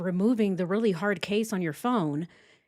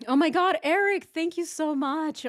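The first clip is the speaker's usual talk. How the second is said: high, excited burst of thanks; real delighted gratitude; 8 semitones higher than usual. Real, not acted. Streamer thanks a viewer for super chat, excited. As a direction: gush with surprised thanks.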